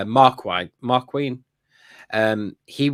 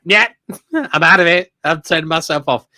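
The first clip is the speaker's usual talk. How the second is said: laughing droid voice; 3 semitones higher, 4 dB louder than usual. Retold or imitated. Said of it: "It's like".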